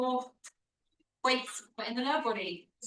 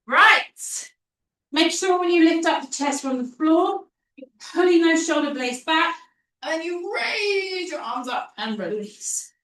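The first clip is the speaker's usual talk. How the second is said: loud coaching call; 6 semitones higher, 8 dB louder than usual. Real, not acted. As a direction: project to the whole room. Coach calling out over the class.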